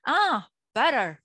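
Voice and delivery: dawning "ah", then say butter like a native; English-style butter. Retold or imitated. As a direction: native finally understands butter. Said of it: "il fait".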